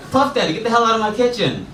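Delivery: loud, high comic yell; mock outrage. Diner ordering someone out of the kitchen, mock angry yell. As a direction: throw him out with hammed-up anger. Acted throwing cook out of kitchen.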